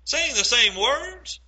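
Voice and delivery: laughing, rising disbelief on "Saying the same words?"; preacher laughing at the irony with the congregation; amused question. Shown as a demonstration. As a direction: chuckle it back as a slow, incredulous question.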